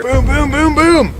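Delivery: high, loud rhythmic booms; imitated pounding hooves. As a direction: boom out the charging moose's steps. Imitates moose arriving at a run.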